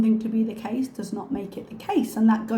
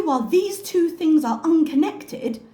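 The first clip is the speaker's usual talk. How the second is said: mock dismissive; 8 semitones higher, 5 dB louder than usual. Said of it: "But to say".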